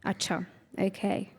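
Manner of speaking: ordinary talk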